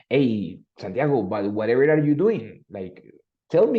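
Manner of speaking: teacher demanding an answer, WHATEVER stressed; emphatic question. Acted. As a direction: play an impatient teacher pressing with "whatever". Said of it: "it's an emphatic question".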